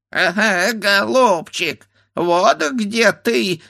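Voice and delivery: high, slow bleating voice; bleating ram's head. A narrator's reading. A ram's head mocking from the tree, bleating. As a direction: bleat it like a ram. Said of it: "заблеяла баранья голова".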